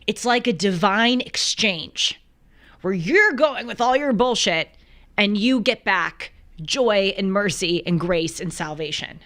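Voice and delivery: lightly put-on Bronx accent; a touch of Bronx, emphatic and fading; imitated Bronx accent. Host finishing friend's divine exchange, light imitated Bronx accent. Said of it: "he has this thick Bronx accent".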